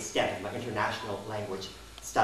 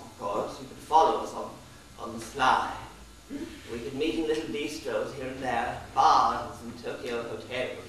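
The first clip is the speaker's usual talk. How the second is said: British tourist. Retold or imitated. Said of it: "he said to me".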